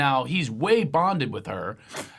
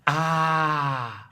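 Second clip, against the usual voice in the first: mock booyah; 2 semitones higher, much slower than usual. Boo-boo blaster cry.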